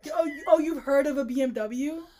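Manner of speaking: loud, mocking disbelief; mock incredulous. Mocking the book heroine, loudly incredulous. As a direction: sneer back the line in mock shock.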